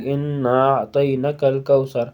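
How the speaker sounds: انا اعطیناک الکوثر with the ن kept short; انا اعطیناک الکوثر, each vowel clear; correct recitation. Shown as a demonstration. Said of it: "زبر بس پڑھتے ہیں".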